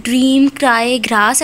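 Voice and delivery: dream, cry, grass with the R clearly sounded; slow teaching demo, R sounded in each word; clear R before vowel. Shown as a demonstration. Teacher sounds the R clearly in dream, cry, grass. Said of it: "उसको drop नहीं करेंगे".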